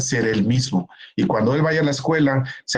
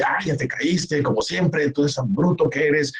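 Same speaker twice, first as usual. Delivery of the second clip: mocking scolding parent; 3 semitones higher than usual. Shown as a demonstration. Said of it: "y uno empieza a gritonearle al niño".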